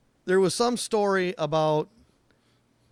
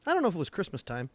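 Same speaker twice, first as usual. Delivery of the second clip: deadpan; 4 dB quieter, faster than usual. Retold or imitated. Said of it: "His dad straight face looks at me".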